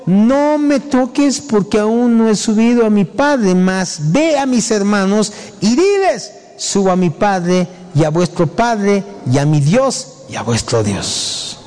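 deliberate recitation starting high; scripture reading. Acted. Reads scripture aloud.

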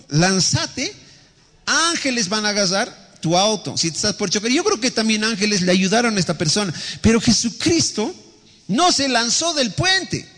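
high-pitched, emphatic sermon delivery; impassioned preaching. Acted. Pastor contrasting a reckless believer with Jesus, impassioned preaching. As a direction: preach it high, stretching the key phrases.

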